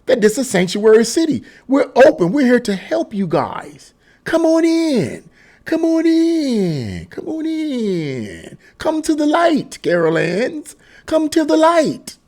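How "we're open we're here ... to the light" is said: slow, high, drawn-out mock invitation; sarcastic imitation of an open-door welcome; mock welcoming. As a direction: beckon them in like a sing-song lure. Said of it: "because you said".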